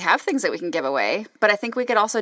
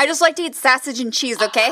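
laughing; 6 semitones higher than usual. Pretend. Joking Wisconsin stereotype, laughing.

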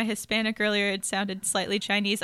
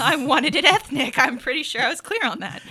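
higher, emphatic mock insistence; insistent diner; 4 semitones higher, 3 dB louder than usual. Diner corrects the waiter about ordering it ethnic, insistent. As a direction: play a customer standing firm on the order.

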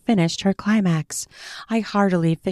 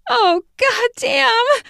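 muttered curse; 4 dB louder, much slower than usual. Acted. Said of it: "she mutters".

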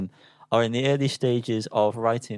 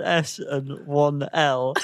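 mock slow quote; 3 semitones higher, much slower than usual. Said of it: "You said with an".

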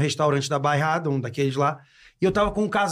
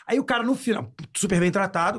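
ordinary talk

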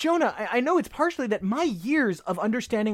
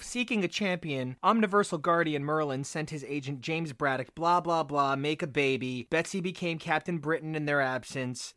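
deadpan summary; 3 semitones lower, 4 dB quieter than usual. Retold or imitated. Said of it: "and I say to myself".

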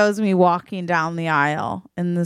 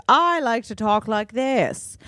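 higher affected Nashville-mom voice with a British tinge; uptight, almost British accent; 5 semitones higher than usual. Acted. Bride's mom defending her almost British accent, in that accent. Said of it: "you have almost a British accent".

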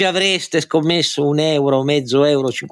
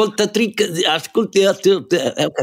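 corsivo voice; 7 semitones higher than usual. Pretend. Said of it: "devi imparare a parlare in corsivo".

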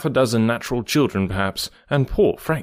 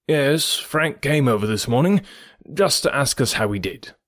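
guarded and demure; 3 semitones higher than usual. Acted. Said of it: "in a tone much more guarded and demure".

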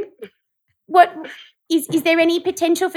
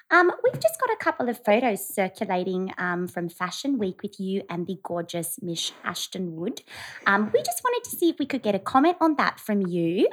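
polite phone reporter voice; lightly put-on tabloid reporter. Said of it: "work on her reporter voice".

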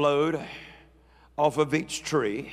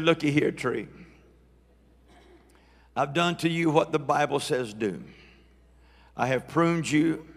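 mock Southern accent; 3 dB louder than usual. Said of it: "I spoke in my best Southern accent to my tree".

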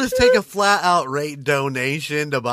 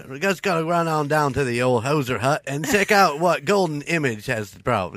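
put-on Canadian accent. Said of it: "drop in your Canadian accent".

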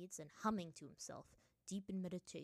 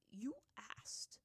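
whispering; 2 semitones higher than usual. Acted. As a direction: whisper it simply. Spirit answers simply, whispered.

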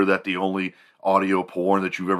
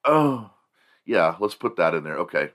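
excited; 5 semitones higher than usual. Retold or imitated. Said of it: "She's like".

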